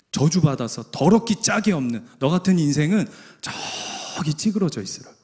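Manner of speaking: a hint of a sneering crowd, lightly voiced; scornful crowd. Preacher voicing the crowd scolding Bartimaeus, mildly scornful. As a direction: look down on him and brush him off. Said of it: "이게 무슨 얘기냐 하면".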